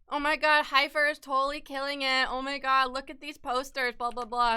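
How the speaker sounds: high, loud, fake-excited gush; mock gushing manager. Mocking the manager's sudden praise, high and gushing.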